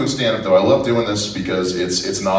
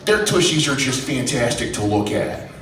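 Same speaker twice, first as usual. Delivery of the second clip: Minnesota grandma; 4 semitones higher than usual. Acted. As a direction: gush like a Minnesota grandma, stretching the words. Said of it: "I don't know why she's from Minnesota".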